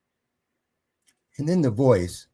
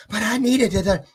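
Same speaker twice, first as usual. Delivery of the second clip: whiny mimic; 12 semitones higher, 4 dB louder than usual. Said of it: "she was".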